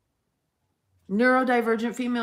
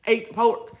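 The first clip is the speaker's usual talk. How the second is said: lightly voiced Lord giving orders; a hint of divine command, back to usual pitch; voice of God; faster than usual. God ordering pork after the laughter, lightly voiced. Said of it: "that's how the Lord sounds".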